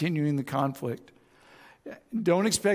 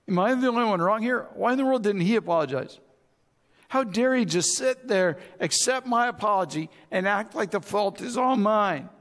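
mildly indignant, higher-pitched inner rant; angry; 5 semitones higher than usual. Retold or imitated. Preacher recalling thoughts on the drive home, mildly angry. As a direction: replay your own mock outrage, pitch raised. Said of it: "I was angry because he didn't respond".

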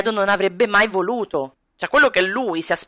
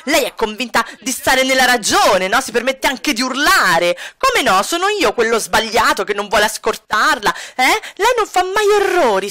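venting Edo. Retold or imitated. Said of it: "Immaginiamo come si stia sfogando".

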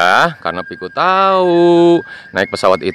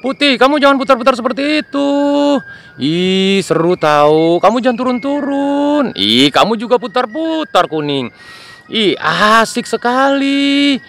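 excited little plane, pitched up high; high toy plane voice; 9 semitones higher than usual. Acted. Plane to plane in the sky, high and excited. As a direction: squeal with delight like a tiny plane.

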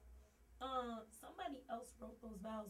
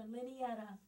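twin sister voice; 4 dB louder than usual. Pretend. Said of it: "I'm Lenny's twin sister".

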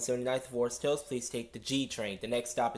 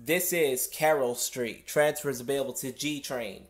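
subway announcement. Real, not acted. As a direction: announce the stop through the loudspeaker. Conductor announcing the station.

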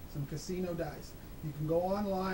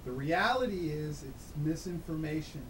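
electronically altered voice, pitched down; disguised deep voice. Real, not acted. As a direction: voice run through a disguiser. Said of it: "this is not my real voice. I mean, I've got a disguiser on".

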